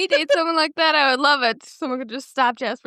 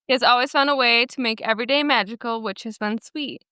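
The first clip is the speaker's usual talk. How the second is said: measured story narration in even phrases; reading aloud; 3 semitones lower than usual. Acted. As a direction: read someone's written post to listeners. Reads a Reddit post aloud.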